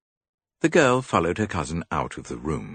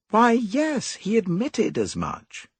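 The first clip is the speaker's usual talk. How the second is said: louder, brisk impatience; impatient; 5 dB louder, slower than usual. A narrator's reading. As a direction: brush it off. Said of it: "I said impatiently".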